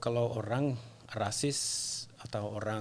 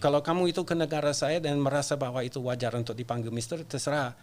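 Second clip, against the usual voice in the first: raised, insistent protest voice; 2 semitones higher, 4 dB louder than usual. Retold or imitated. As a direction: tell him off firmly. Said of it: "saya biasanya protes".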